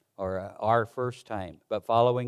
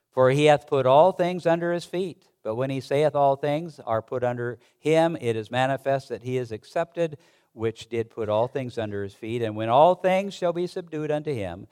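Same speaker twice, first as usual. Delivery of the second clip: raised, solemn reading of King James verses; formal Bible reading to the congregation; scripture reading. Acted. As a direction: read it out like scripture from the pulpit. Pastor reads scripture aloud.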